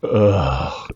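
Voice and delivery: genuinely fed-up groan, imitated; John Heater. Shown as a demonstration. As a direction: groan like an actor sick of his catchphrases. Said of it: "John Heater is fucking sick of this shit".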